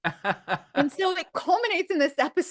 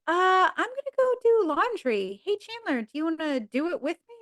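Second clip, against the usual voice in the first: lightly voiced coy Monica, higher; a hint of flirty innuendo, pitched up; 4 semitones higher than usual. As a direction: Monica teasing Chandler with a high coy line. Monica's flirty line voiced high.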